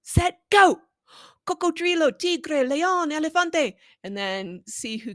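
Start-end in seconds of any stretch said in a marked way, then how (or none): 0.0-0.8 rising, loud ready-set-go; game-show countdown; excited race start. Shown as a demonstration. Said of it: "see how fast you can name each". 1.5-3.8 quick naming. Shown as a demonstration. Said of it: "see how fast you can name each".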